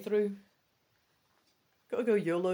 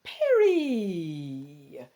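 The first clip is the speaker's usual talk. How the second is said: calling out, drawn out and louder; hollering from outside; 3 semitones lower, 6 dB louder, much slower than usual. Acted. Friend calling from outside the cabin, hollering. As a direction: shout it through the door. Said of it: "someone hollers from outside".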